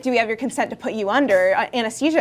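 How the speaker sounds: rapid-fire doctor's consent question; quick imitation of a doctor; quickly said. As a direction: rattle it off like a hurried doctor. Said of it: "he, like, quickly said it".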